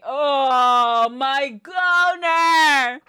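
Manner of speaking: slow loud drawn-out Oh my goner; loud slow groan of dismay; drawn-out exclaim. Acted. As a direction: stretch it out loudly.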